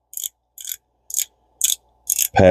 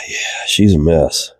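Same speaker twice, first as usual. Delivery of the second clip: whispering; slower than usual. Real, not acted. Muttering about the dirty reel.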